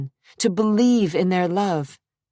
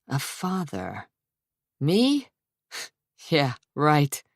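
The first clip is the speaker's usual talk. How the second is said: put-on scoffing young man with a laugh; sarcastic laugh; slower than usual. A narrator's reading. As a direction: brush it off mockingly. Mario's voice, sarcastic.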